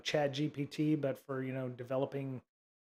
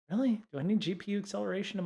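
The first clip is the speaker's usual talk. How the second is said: "Really?" asked much higher and louder in disbelief; incredulous really; 6 semitones higher, 4 dB louder, much faster than usual. Real, not acted. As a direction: scoff at the claim, genuinely surprised. Incredulous at GPU acceleration claim.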